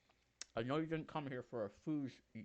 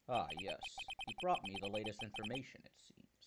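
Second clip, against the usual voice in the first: a lower, composed prosecutor voice; Edgeworth voice; 3 semitones lower than usual. Acted. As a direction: drop into a cool, collected lawyer. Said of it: "Now that's the voice".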